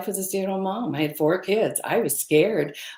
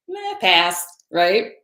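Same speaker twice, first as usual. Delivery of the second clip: dismissive brush-off; 3 semitones higher, 5 dB louder, slower than usual. Retold or imitated. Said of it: "I'm just gonna say".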